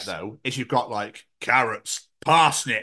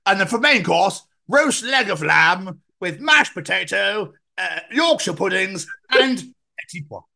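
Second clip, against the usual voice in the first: Come Dine with Me; 5 semitones higher than usual. Pretend. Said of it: "someone come dine with me".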